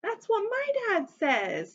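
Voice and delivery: put-on high, pleased child's voice; proud little storybook remark, lifted high; smiling. A narrator's reading. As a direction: say it through a smile, pitch up. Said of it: "Sam smiled".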